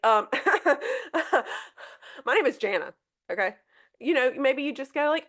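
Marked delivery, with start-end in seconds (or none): 0.0-3.5 mocking laugh then a curt correction of the name Jana; sneer, then correct the name Jana curtly; snippy correction. Shown as a demonstration. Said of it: "you don't wanna be like".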